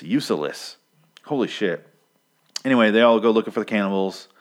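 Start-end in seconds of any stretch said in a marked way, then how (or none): 0.0-0.8 "useless" broken into three syllables, use-uh-less; extra syllable. Shown as a demonstration. Reviewer scorning the priest, "useless" said use-uh-less. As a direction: slip an uh into the middle of "useless". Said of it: "he adds an extra syllable to it".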